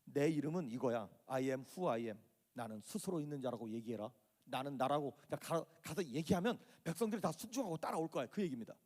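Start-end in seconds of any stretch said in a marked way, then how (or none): 0.0-5.1 low, measured voice of God; understated, lower-pitched pronouncement; solemn divine declaration. Acted. God solemnly declares his name.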